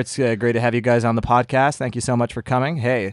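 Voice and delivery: British host doing an American accent. Shown as a demonstration. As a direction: swap into American podcast-host patter. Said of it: "let's hear your American".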